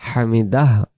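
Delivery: হামিদা ending in a pushed puff of h; হামিদা with audible final "dah"; pushed h sound. Shown as a demonstration. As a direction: give the end of হামিদা a breath push. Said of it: "আওয়াজটা ধাক্কা দিতে হবে".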